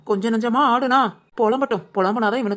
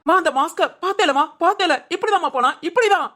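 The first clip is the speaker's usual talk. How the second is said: urgent, higher-pitched pleading cries; agitated shouting; 4 semitones higher than usual. Acted. Asking mother if she saw the mask, agitated shouting. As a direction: insist frantically, voice pitched up. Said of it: "கத்தாதடா".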